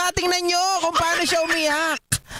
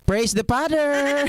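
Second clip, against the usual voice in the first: laughing while crying out praise; half-laughing mock praise; laughing exclaim; slower than usual. Real, not acted. Streamer laughing at the hearing, praising the Father.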